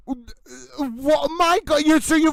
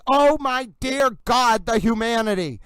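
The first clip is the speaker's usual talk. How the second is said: dramatic lament. Real, not acted. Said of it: "It's actually appropriate for me to say".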